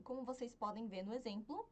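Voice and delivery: ordinary talk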